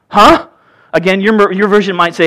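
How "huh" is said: high, puzzled huh, a touch louder; baffled grunt of a question; confused huh. Retold or imitated. Nicodemus puzzled at Jesus' words, baffled huh. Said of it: "Nicodemus said to him".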